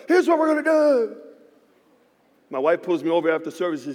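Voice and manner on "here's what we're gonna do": high, hyped-up announcement; pumped up. Retold or imitated. Pastor hyping the church about his plan, pumped up and high. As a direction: sell the plan with energy. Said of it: "I'm getting pumped up".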